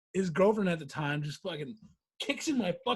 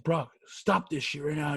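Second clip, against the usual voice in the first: retold angry order; 5 semitones lower than usual. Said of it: "I'm getting fucking pissed".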